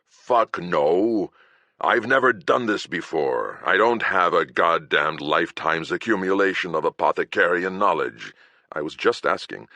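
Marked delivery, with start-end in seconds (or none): 0.0-8.3 loud, exasperated snap at a doubting question; annoyed outburst. Acted. Annoyed healer snapping at the narrator, loud and exasperated. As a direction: throw the answer back, irritated and raised. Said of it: "He glared at me in annoyance".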